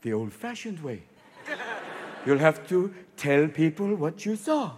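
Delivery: low, soft deadpan; dry retort. Retold or imitated. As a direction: sneer it quietly. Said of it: "I went".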